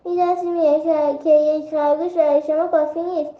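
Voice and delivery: a frightened little rabbit pleading half in tears; tearful plea. Acted. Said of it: "با گریه گفت".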